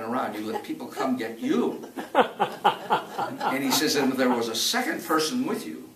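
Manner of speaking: ranger's words quoted through real laughter; laughing quote. Retold or imitated. Retelling the ranger's advice to the listener, laughing.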